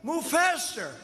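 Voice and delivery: high, slow mocking whine; mocking Biden. Speaker mocks Biden's complaint to the rally crowd, slow high whine. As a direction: drag it out to mock a rival. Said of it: "He said".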